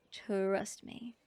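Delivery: hushed coaxing whisper. Acted. Honey seller urging a customer to taste, whisper. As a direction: lean in and whisper it.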